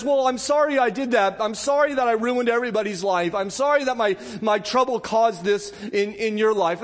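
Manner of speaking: a light offhand "I'm sorry", no sorrow in it; shallow worldly apology. Retold or imitated. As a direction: toss off the apology like it costs nothing. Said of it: "it's not like worldly mourning".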